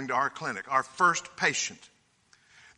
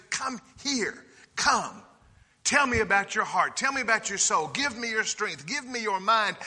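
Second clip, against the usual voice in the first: higher, gentle voice of a loving Father; tender invitation; 3 semitones higher than usual. Acted. God voiced inviting sinner.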